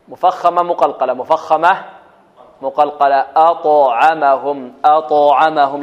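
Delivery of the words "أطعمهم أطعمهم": أطعمهم slowly, with a clear bounce on the ط; clear qalqalah. Shown as a demonstration. Teacher models recitation for students, clear qalqalah. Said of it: "لابد أن نأتي بالقلقلة واضحة".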